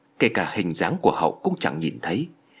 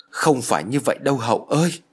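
put-on old father calling out, slightly raised; 3 semitones higher than usual. A narrator's reading. Father calling after his fleeing son Hậu, calling out. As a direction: call after him in mild alarm. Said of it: "Ông già Tư nói to".

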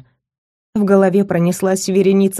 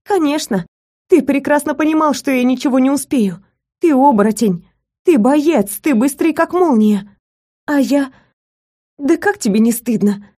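high, heated tirade; angrier heroine; 6 semitones higher than usual. Acted. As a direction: pile up the accusations, pitch kept high. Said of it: "ещё больше разозлилась я".

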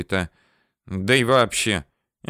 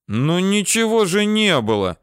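higher-pitched exasperated protest; mild indignation; 9 semitones higher than usual. A narrator's reading. He protests to the girl that nothing happened, mild indignation. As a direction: protest in a lifted voice, a touch indignant. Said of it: "возмутился я".

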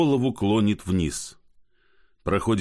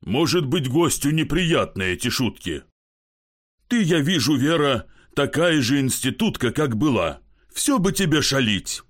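raised, half-teasing reproach; mild drunk scolding; 6 semitones higher than usual. Acted. Kozyavkin chides his wife for playing pranks, raised. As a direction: tell her off like a schoolgirl.

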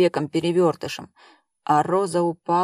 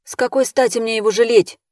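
louder, higher surprised question; 5 semitones higher, 5 dB louder than usual. A narrator's reading. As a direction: ask it in indignant surprise. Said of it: "удивилась Эльвира".

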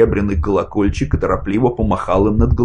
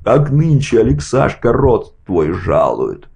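shouting; 6 semitones higher, slower than usual. A narrator's reading. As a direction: shout it, arms waving. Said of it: "Апраксин продолжал выкрикивать".

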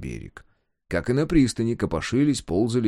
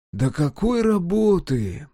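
high, drawn-out objection; slow, raised protest; protesting question; 9 semitones higher, 3 dB louder, slower than usual. A narrator's reading. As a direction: stretch it out, incredulous. Protest in acted dialogue.

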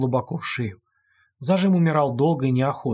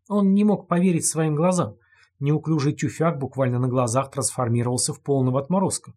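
plain reading voice

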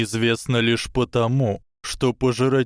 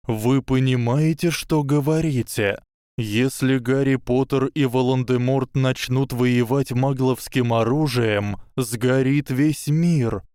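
cracked voice; 3 semitones higher than usual. Acted. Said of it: "надтреснутым голосом".

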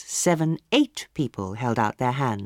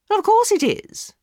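much higher, louder indignant snap; angry; 7 dB louder than usual. A narrator's reading. Hostess angrily cutting off the palmist's evasion. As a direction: bite back at the palmist. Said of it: "said Lady Windermere angrily".

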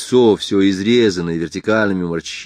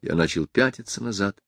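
ordinary delivery, nothing marked

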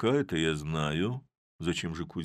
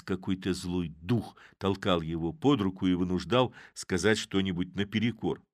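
ordinary delivery

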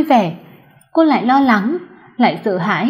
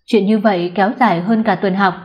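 plain reading voice

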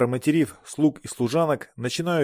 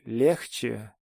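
put-on drunk slur. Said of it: "пьяным, заплетающимся языком".

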